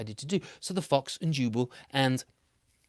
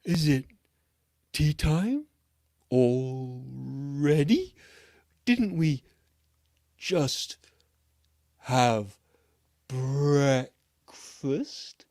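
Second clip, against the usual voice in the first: very slow, louder sloth voice; a slow sleepy sloth puzzled about tea time; 7 dB louder, much slower than usual. Acted. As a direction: drag out every word like a sleepy sloth. Sloth answering slowly.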